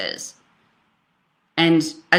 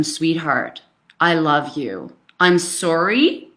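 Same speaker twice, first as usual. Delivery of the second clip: tender apology; 2 semitones lower, slower than usual. Retold or imitated. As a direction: soothe your son gently. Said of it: "I said to him".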